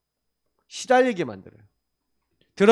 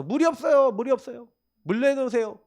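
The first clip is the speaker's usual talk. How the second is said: higher-pitched imitation of grumbling; mock complaining; 4 semitones higher than usual. Israelites demanding water from Moses, mock complaining. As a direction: act out a people's complaint, pitched up. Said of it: "불만불평하는 거예요".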